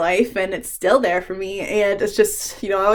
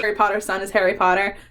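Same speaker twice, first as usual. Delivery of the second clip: flat robotic repeat of the assistant; imitating the phone assistant dryly; mock Siri voice; faster than usual. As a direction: parrot Siri like a deadpan machine. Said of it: "Okay, Siri".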